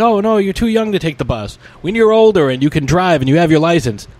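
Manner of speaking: a hint of a fussy mother; mom's voice. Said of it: "she goes".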